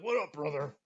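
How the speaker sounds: mild wrestler bravado greeting; buddy playfully imitating a wrestler's greeting, lightly voiced; Hulk Hogan. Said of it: "Like I'm fucking Hulk Hogan".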